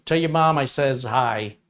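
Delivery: put-on amateur Wisconsin accent, drawn out; slow, loosely imitated Wisconsin accent. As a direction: try a rough Upper Midwest accent. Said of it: "I don't do the accent very well".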